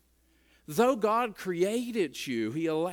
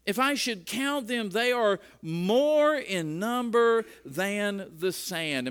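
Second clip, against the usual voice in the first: scripture reading; 4 semitones higher than usual. Acted. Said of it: "And he says this".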